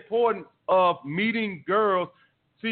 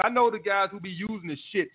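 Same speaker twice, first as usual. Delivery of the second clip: usual speaking voice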